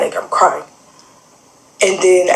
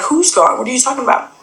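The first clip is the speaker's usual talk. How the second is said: higher-pitched retold bewilderment; mildly alarmed questioning, pitched up; confused questioning; 6 semitones higher than usual. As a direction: act out a puzzled, startled reply. Retelling her confused reply to brother.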